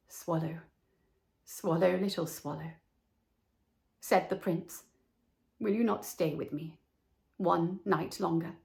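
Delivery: a hushed desperate plea; whispering prince. A narrator's reading.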